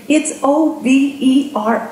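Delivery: "O V E R" spelled slowly, each letter hit. Retold or imitated. Mocking inner voice spelling out "O V E R" to the speaker, slowly. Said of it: "I have a voice over here saying".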